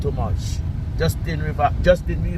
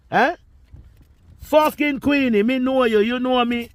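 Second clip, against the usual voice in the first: much higher, biting each "know"; telling Queenie off in a high, furious pitch; high angry retort; 10 semitones higher than usual. Real, not acted. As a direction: spit the questions back at her.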